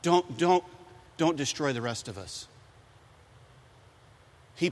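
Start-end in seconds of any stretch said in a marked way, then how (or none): 0.0-2.5 pleading. Retold or imitated. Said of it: "Moses pleads with God".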